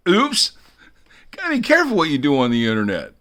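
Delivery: high, loud, exaggerated oops and warning; mock alarm. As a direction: cry out high, then rush the warning. Mock alarm after his FBI story.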